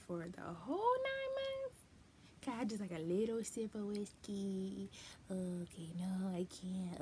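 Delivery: squeaky pretend pleading, then giving in; mock pleading. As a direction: beg like a kid for one sip. Bargaining about drinking while pregnant.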